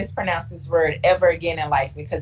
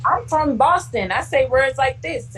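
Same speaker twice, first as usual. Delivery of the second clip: friend from Boston; 7 semitones higher than usual. Retold or imitated. Friend quoted.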